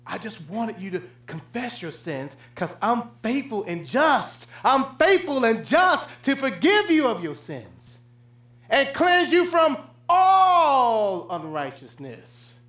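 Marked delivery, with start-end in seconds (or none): 4.6-12.5 slow, tearful promise of forgiveness; tearful preaching. Acted. Preacher voices God's promise of forgiveness, near tears. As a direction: plead it near tears, drawn out.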